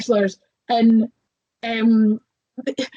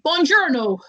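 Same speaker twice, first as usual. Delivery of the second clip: lightly put-on Italian accent, pitched up; mock Italian accent; 5 semitones higher than usual. Imitating Brad Pitt posing as an Italian director, mock Italian accent. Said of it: "trying to be an Italian film director".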